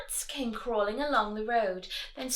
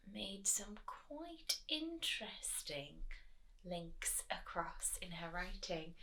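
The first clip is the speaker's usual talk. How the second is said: soft conspiratorial whisper; 2 semitones lower, 18 dB quieter than usual. Shown as a demonstration. Teacher whispering to the children about the author. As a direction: whisper it like a secret. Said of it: "unvoiced whisper".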